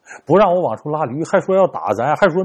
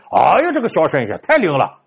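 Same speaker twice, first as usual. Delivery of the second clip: 太 stressed, a long falling exclaim of wonder; an old man amazed to see the donkey come home; delighted praise. Acted. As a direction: marvel at the fortune teller.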